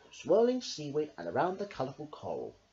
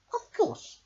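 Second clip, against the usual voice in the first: smiling reply. A narrator's reading. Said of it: "smiled Starfish".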